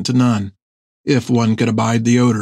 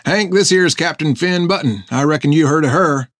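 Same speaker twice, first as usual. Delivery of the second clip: put-on old sailor voice; 4 semitones higher than usual. Topper introduces Finn.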